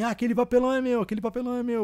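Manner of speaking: high, fast, eager, excited delivery.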